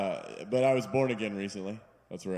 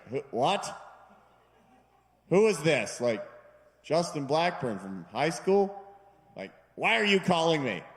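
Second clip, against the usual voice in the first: confused friend; 5 semitones higher, 4 dB louder than usual. Retold or imitated. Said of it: "And he's like".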